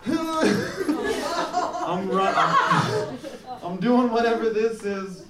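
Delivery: hammed-up high strained voice; mock strained squeak. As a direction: squeak it out while clenching. Acting out a strained waddle.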